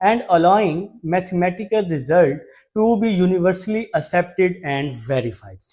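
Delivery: reading the question word by word, slowly; slow dictation read. Shown as a demonstration. Teacher reads question six to students, slow and spaced. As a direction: spell the question out slowly for the class.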